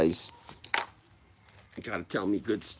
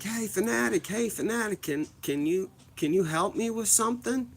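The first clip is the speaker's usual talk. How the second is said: much higher, eager call to the mascot; calling out excitedly; 10 semitones higher than usual. Retold or imitated. Kid at the ballgame calling to the mascot, high and eager. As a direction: shout up to get his attention. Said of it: "I was like".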